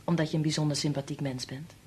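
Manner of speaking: a touch condescending, kindly; lightly patronising compliment. Real, not acted. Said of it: "Dat klonk inderdaad een beetje patroniserend".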